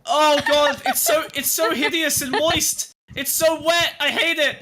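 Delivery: high, revolted wail; horrified disgust. Pretend. Streamer describes the creature touching him, high disgusted whine. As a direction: recoil in horror, drawing the words out. Acted attack by an unseen creature.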